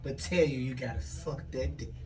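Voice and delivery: bug voice. Pretend. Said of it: "Let me get in my bug voice".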